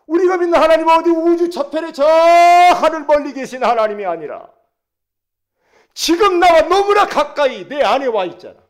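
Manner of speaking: loud, high scripture declamation; full-force preaching. Real, not acted. Preacher reading Romans to the congregation, full-force preaching. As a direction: proclaim the verse at full volume.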